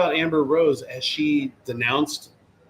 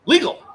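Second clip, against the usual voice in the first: Legal punched high and loud; stress on legal; 13 semitones higher, 7 dB louder than usual. Shown as a demonstration. Host hits the word Legal to make his point, stressed. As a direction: land Legal as the magic word. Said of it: "the magical word".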